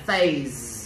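"phase" drawn out with the final sound held; pronunciation demo. Shown as a demonstration. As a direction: say "phase" with a long, audible final z. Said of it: "Các bạn nghe thầy đọc nè".

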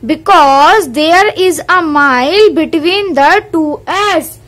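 very slow, deliberate reading of the book line; careful teacher reading from the textbook; slow textbook read-aloud. Acted. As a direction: read each word out slowly for the class. Reading riddle answer slowly.

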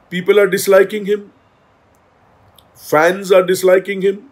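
very slow, deliberate statement; slow emphatic. Real, not acted. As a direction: drag each word out for weight. (बहुत धीमे ज़ोर देकर)

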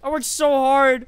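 frustrated lament. Real, not acted. Lamenting the lost fight.

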